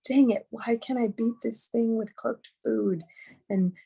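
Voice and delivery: mild, slow self-scolding, pitched a little up; understated angry inner critic. Retold or imitated. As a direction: scold yourself in exasperation, drawing the words out. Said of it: "I'm angry with myself".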